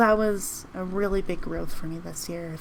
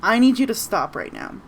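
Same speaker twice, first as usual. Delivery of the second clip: mildly firm, louder command; authoritative; 5 dB louder than usual. Shown as a demonstration. Teacher demonstrating an order to stop, authoritative. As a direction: lay down the law, mildly. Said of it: "authoritative in a way".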